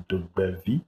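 "Dobevi" pronounced doo-BEV-ee, rising at the end; surname pronunciation. Shown as a demonstration. Guest shows the host how to pronounce his surname, "Dobevi" as doo-BEV-ee. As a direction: say "Dobevi" as doo-BEV-ee, lifting the last syllable. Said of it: "My surname is pronounced".

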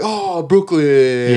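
put-on dog baby talk. Shown as a demonstration. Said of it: "I do baby voice to the dogs".

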